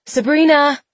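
high, loud call after someone. A narrator's reading. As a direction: call her name as she runs. Jenna calls after her daughter.

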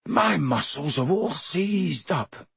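slow, aching, worn-out complaint; too stiff to move; groaning. Acted. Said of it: "he groaned".

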